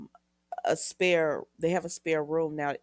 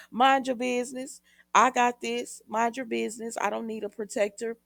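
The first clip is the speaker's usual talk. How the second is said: retold telling-off; 6 semitones higher, 7 dB louder than usual. Retells Maggie telling Steve off.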